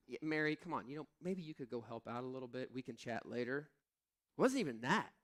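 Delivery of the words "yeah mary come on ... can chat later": softer, casual mild suggestion; soft half-hearted nudge. Retold or imitated. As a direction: gently brush it off.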